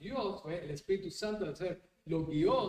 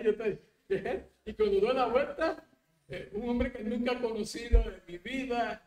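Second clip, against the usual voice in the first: laughing; 5 semitones higher, 7 dB louder than usual. Real, not acted. Laughing while retelling.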